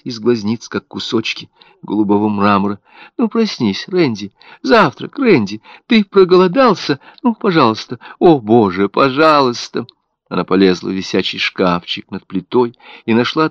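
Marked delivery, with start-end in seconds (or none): 3.2-9.9 high, pleading, breaking toward prayer; frantic pleading. A narrator's reading. Mother seats her baby at the table, frantically begging him to wake. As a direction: coax then beg him to wake.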